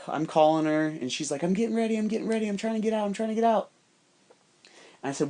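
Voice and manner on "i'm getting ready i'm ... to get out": high-pitched mimicry of a harried girl; pestered, put-on higher voice; imitating her excuses. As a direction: repeat it in a high, insistent monotone. Retelling her rushed, pestered replies.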